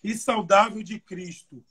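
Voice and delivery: scripture reading. Acted. Preacher reading the verse aloud to young people, solemn reading voice. Reads second Bible version.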